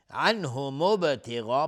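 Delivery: ابتغاء with a bouncing, released "b"; qalqala. Shown as a demonstration. Teacher showing qalqala on ba, echoing release.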